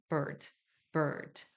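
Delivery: 버드 아닌 R 굴린 어 소리로 bird; bird는 혀를 말아 R 붙은 어로; R-colored er. Shown as a demonstration. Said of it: "이런 식으로 어인데". (R 발음 섞인 어 소리)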